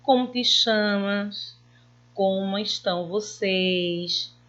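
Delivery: slow, clearly asked questions; asking tune. Shown as a demonstration. Teacher modelling questions for pupils. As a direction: ask each one slowly and clearly. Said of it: "Sirvo para fazer perguntas".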